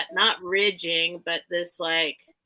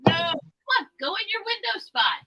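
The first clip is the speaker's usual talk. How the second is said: high, loud cat voice; voicing the cat; 8 semitones higher, 5 dB louder than usual. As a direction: speak for the cat. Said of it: "he's like".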